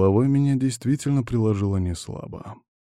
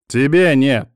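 loud, raised objection; sharp cry; 5 semitones higher, 8 dB louder, slower than usual. A narrator's reading. Алан objecting back to his friend, sharp cry. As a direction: cry it out in protest. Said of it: "вскричал он".

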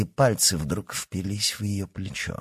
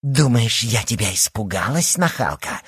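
exclaimed; 3 semitones higher than usual. A narrator's reading. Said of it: "воскликнула Лия".

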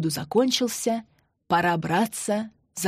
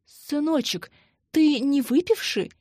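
higher, pleading and lost mother; plaintive moan; 7 semitones higher than usual.

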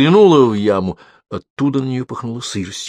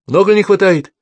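anxious call; 11 semitones higher, 6 dB louder than usual. A narrator's reading. Anxious shout into pit.

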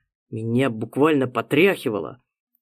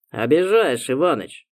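offended; 2 semitones higher than usual. Acted. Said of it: "обиделся друг".

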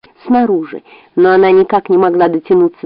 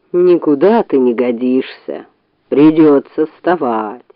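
yawning sleepy bear; 6 semitones lower, slower than usual. Acted. Bear grumbles getting up.

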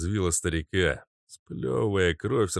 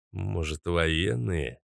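plain reading voice

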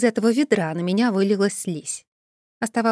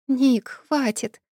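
trembling plea; 4 semitones higher, much slower than usual. Acted. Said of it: "дрожащим голосом взмолилась".

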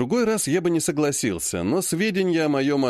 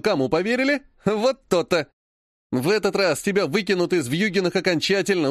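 higher, smug gloat, slowing at the end; gloating sneer; 3 semitones higher than usual. Acted. Vlad gloats that nobody will believe Ilya, smug. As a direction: rub his victory in.

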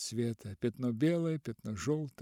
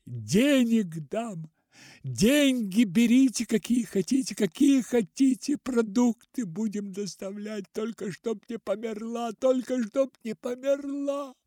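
desperate shouting; 9 semitones higher, 7 dB louder than usual. A narrator's reading. Father shouts offers of money at the ceiling. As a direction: shout your bargain at the ceiling. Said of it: "кричал он в потолок".

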